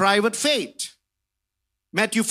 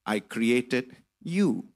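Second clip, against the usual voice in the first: voice of God; 6 semitones lower, 4 dB quieter than usual. Retold or imitated. God answering the upset man at night, low and soft. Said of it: "And that voice says".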